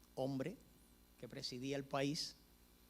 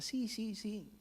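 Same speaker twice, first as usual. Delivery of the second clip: quick, high, nervous agreement; mock frightened yes-yes; 7 semitones higher, slower than usual. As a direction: blurt the yeses, scared stiff. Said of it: "pero de muerto de miedo que estaba".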